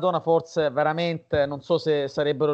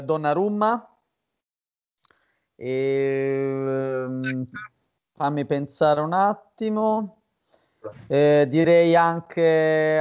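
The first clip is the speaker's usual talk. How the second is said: speaking away from the mic; distant, off-mic voice; far from mic; slower than usual. Real, not acted. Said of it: "Fabri, avvicinati al microfono".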